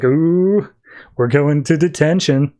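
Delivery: drawn-out rising "ooh", schoolkid taunt; lightly voiced playground teasing; teasing mockery. Deathstroke jeers as both get led away, teasing. Deathstroke mocks being marched off.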